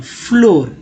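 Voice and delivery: फ्लोर with a rounded o; correct reading. Shown as a demonstration. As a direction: say फ्लोर as "flohr". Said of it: "ऐसे ही पढ़ना होता है".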